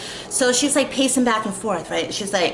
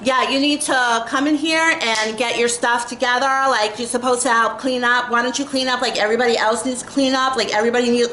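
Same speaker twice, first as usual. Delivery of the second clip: mocking a pushy classmate, pitched up; bossy mock quote; 4 semitones higher than usual. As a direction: parody her lecturing you to clean up. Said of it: "she's talking just like this".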